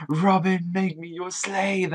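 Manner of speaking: high-pitched, slow, starstruck plea; imitating a fan screaming. Fan Bartolomeo begs Robin in a mock high squeal. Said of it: "screaming over".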